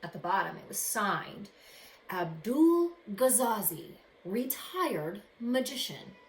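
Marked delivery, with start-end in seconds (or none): 2.1-6.2 louder, slow, drawn-out magician's name; slow, mysterious magician's sign-off; grand signature. Acted.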